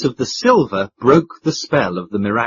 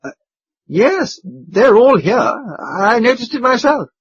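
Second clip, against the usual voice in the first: put-on much higher, eager young duke; eager cry; 9 semitones higher, 4 dB louder, slower than usual. A narrator's reading. Young duke cries out to the men, eager. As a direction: blurt it out keenly. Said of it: "cried the young duke".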